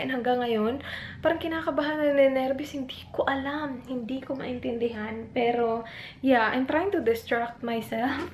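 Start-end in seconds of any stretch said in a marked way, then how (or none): 2.7-5.3 soft, breathy, unsure murmur; anxious whisper. Real, not acted. Vlogger confiding her nervousness, whispering. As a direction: whisper your confusion. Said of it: "I feel really weird".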